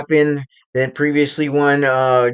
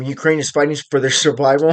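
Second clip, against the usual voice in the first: quick, with a real laugh slipping in; suppressed leftover laughter breaking through; still laughing; faster than usual. Real, not acted. Vlogger back on Ukraine after own slip, still laughing. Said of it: "I'm still laughing".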